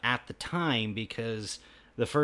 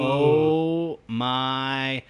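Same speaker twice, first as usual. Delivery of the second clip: drawn-out awe; 3 dB louder than usual. Acted. Gushing about watching dinosaur movies.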